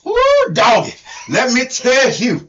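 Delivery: hooting, put-on country accent; playful imitation of a co-host's country twang; Hee Haw Tony. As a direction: open high and whooping in a hillbilly accent. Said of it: "has to sound like me".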